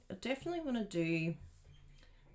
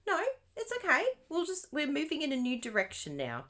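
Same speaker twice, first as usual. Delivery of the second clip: breezy crafter; 9 semitones higher, 4 dB louder than usual. Retold or imitated. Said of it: "just adapt and go".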